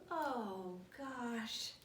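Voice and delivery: drawn-out, sinking groan of words; mock dismay. Reader embarrassed after the song, mock-dismayed sigh of words. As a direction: sag with weary embarrassment.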